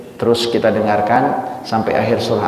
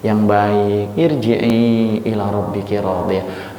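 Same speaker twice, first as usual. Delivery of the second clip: gentle calling; slower than usual. Acted. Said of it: "Kalau ruh-ruh yang baik itu dipanggil".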